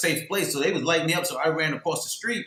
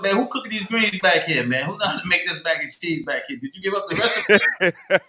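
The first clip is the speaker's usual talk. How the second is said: high, excited questions; 6 semitones higher, 4 dB louder than usual. Retold or imitated. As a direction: ask excitedly, almost laughing. Retold excited questions about food.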